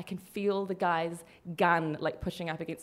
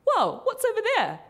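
sly distraction; 12 semitones higher, 3 dB louder than usual. Retold or imitated. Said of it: "one guy said to me".

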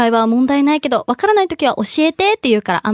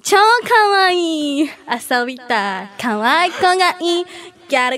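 put-on slow teen gal voice; 3 semitones higher, slower than usual. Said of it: "っていうのが入る。".

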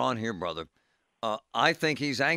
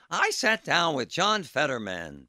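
imitating John Delano; 3 semitones higher, slower than usual. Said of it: "That's John Delano's line".

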